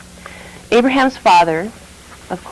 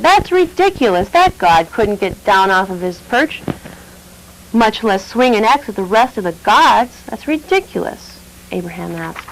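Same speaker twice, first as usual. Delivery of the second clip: scoffing priest; 3 semitones higher than usual. Acted.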